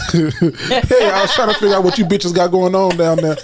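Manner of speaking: casual laughing retake. Shown as a demonstration. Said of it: "say what you just said with a bitch in there".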